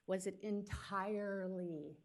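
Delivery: "entirely" slowed and stressed. Real, not acted. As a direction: lean on "entirely", drawn out slowly. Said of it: "emphasis entirely".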